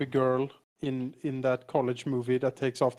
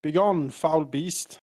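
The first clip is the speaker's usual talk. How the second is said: heroic battle cry; slower than usual. Acted. Hero strikes the spider.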